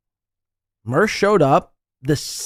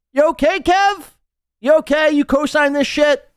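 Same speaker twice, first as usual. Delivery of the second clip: high teasing check-in; mock concern; 11 semitones higher, 3 dB louder than usual. Real, not acted. S0 teasing Kevin about the rant, high mock concern. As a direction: tease him with fake worry.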